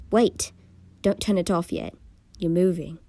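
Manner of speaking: sudden urgent outburst; blurting out. Acted. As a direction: blurt it out before you can stop. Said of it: "I blurted out".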